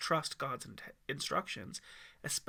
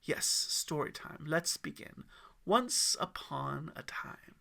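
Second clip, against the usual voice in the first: calm storyteller; slower than usual. Acted.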